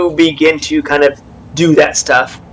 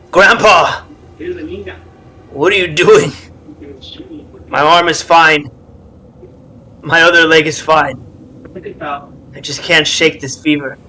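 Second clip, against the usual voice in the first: Nala's voice. Acted. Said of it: "Nala's voice comes out".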